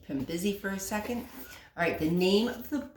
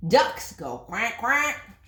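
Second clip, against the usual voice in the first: louder, slow quacking; duck quack; 5 semitones higher, 6 dB louder, much slower than usual. Acted. Mother teaching duck sounds, slow loud quack.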